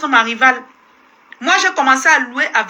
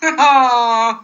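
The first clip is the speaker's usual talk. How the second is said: real burst of laughter; laughing; 2 semitones lower than usual. Real, not acted. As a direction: laugh it off, amused. Laughing at a viewer's comment.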